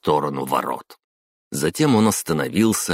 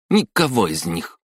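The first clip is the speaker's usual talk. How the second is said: резкий выкрик; 5 semitones higher, 3 dB louder than usual. A narrator's reading. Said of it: "вскрикнула Хатару".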